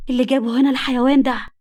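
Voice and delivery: trembling furious exclamation; shaken anger. Acted. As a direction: spit it out in shock and disgust. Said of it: "قالتها لنفسها وجسمها بيرتعش بقوة".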